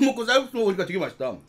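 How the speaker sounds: eating between words; talking while chewing. Real, not acted. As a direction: mouth partly full of noodles. Seen 3: Slurped noodles just before; talks holding noodles, mouth likely chewing.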